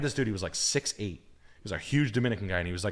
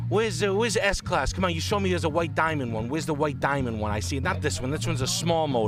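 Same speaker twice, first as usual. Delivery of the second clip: lightly mimicked haggler, raised pitch; Italian customer impression; 3 semitones higher than usual. Italian customer demanding a deal from the salesman, lightly mimicked haggling. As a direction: imitate a pushy buyer firing off demands. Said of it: "That's how he talks".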